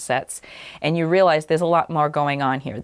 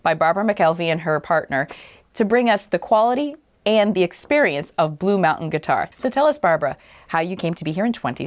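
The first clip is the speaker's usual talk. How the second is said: upbeat local TV presenter; bright show-opening welcome to viewers; TV host intro; 3 semitones higher than usual. Acted. Host opens the segment.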